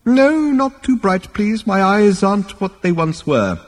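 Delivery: put-on very high, complaining old man; fussy elder wincing at the light, high-pitched; querulous old ancestor. A narrator's reading.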